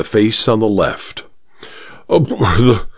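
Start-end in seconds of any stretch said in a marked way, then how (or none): 2.1-2.9 halting splutter leaping up into a question. A narrator's reading. Major hearing of the policeman, spluttering in disbelief. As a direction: stumble over the words in disbelief. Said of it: "spluttered the major".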